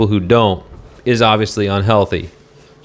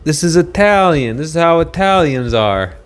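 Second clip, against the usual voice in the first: mocking the governor; 5 semitones higher than usual. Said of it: "He was like".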